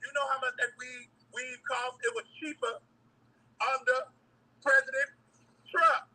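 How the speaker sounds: loud emphatic rant. Real, not acted. Viral clip, rant about weed.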